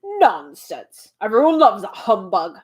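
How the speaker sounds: a pompous, slightly loud retort; humbug shouting. Acted. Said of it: "shouted the humbug".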